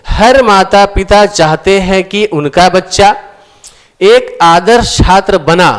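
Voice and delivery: reads the sentence out slowly, word by word; slow reading aloud. Shown as a demonstration. Teacher slowly reading the faulty sentence to students. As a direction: sound out each word for the class. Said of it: "तो बना के जगह हम क्या बोलेंगे?".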